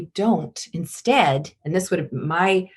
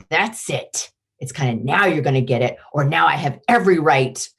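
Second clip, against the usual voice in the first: mock monster threat; 4 semitones lower than usual. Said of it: "the monster".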